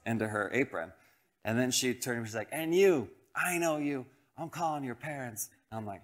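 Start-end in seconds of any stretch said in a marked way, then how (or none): 2.5-5.5 high-pitched imitation of an angry neighbor; mock scolding. Neighbor turning on second boy, mock scolding. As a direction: threaten in a higher voice, not shouting. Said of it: "she screamed at us like she should".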